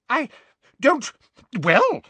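high, spluttering half-words; blustering. Acted. Cornered minister blusters at Dumbledore, high. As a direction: bluster without an answer. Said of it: "blustered Fudge".

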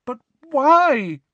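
very high, loud wail; distressed high-pitched plea; close to crying. A narrator's reading. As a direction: wail it, on the edge of tears. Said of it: "sounded as though she wanted to cry".

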